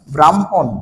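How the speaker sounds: ব্রাহ্মণ in two clear parts, bram, hon; m-before-h pronunciation. Shown as a demonstration. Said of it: "আগে উচ্চারণ হয়ে যাবে".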